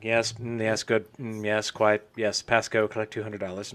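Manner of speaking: lightly voiced British race engineer; fake British accent. British engineer on the race headset, hint of fake accent. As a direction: murmur approval in a mock British accent. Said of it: "with the worst fake British accent".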